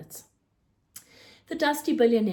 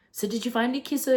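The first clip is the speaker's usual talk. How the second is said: fast, eager, raised voice; excited; 4 semitones higher, 3 dB louder, faster than usual. Acted. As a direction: blurt it out gleefully. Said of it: "exclaimed an excited Raj".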